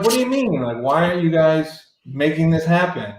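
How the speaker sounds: retold high-pitched protest, mildly mad. Musician retells confronting the label, mildly mad. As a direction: complain with a leap up, then ease down. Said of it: "I was mad at them".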